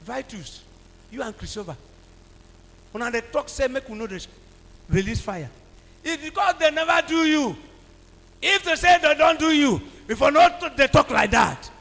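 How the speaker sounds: a mock preacher's scolding; retold rebuke. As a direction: scold them as you did then. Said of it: "I said".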